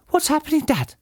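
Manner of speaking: high little fox-cub voice; crying out. A narrator's reading. Small foxes ask their father about the noise, crying out. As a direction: call to Dad in a high child's pitch. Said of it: "cried the small foxes".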